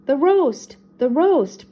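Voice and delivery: high, loud comic panic; mock scream. A narrator's reading. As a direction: scream it lightly, as in a children's story. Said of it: "both he and Scooby screamed".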